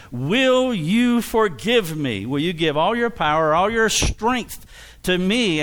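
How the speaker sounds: slow, weighty, each word placed; slow deliberate request. Shown as a demonstration. Preacher demonstrating the right request, slow and weighty. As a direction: lay it out slowly as the model request. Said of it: "You need to ask me".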